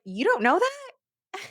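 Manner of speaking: high, slow mock disbelief; imitating a condescending guy. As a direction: drawl it out like you can't believe they don't know. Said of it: "the way he said it was so condescending".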